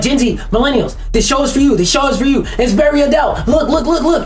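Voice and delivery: high eager mock pitch to young viewers; pandering marketer mock. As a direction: beg for attention like a needy ad. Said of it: "market towards fucking Gen Z".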